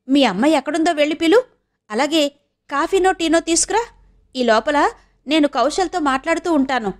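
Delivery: a hint of an uncle giving household orders; welcoming uncle. (ఇంటికొచ్చిన వారిని ఆహ్వానించే మామయ్య గొంతు)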